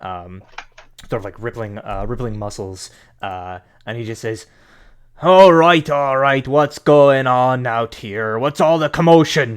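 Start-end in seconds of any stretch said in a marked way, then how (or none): 5.2-9.6 loud, high voice calling out. Voicing Durnan, the proprietor, coming out to ask about the commotion: Durnan voice. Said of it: "turn and see Durnan, the proprietor".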